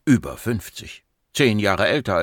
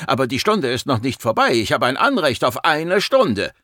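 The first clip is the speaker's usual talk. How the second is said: raised, insistent objection; indignant protest; 4 semitones higher than usual. Acted. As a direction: protest and insist on your due. Patient protests being dismissed early. (empört protestierend)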